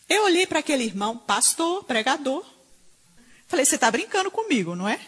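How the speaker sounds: high, loud, fast indignation; indignant retelling. Retold or imitated. Preacher recalling confronting a pastor, indignant and loud. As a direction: fire back in disbelief at the pastor.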